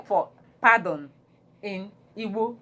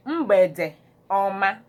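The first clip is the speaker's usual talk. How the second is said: mgbede ọma said slowly, each syllable clear; slow teaching pronunciation; 4 dB louder, much slower than usual. Shown as a demonstration.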